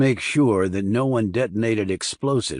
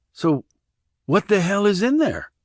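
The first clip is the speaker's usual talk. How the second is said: agitated; 8 semitones higher than usual. Acted. Randy demanding.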